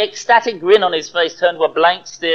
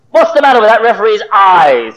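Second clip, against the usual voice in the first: louder, outraged jab at the referee; indignant demand; 5 semitones higher, 6 dB louder than usual. Acted. Football fan shouting at the TV referee, indignant and loud. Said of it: "he demanded".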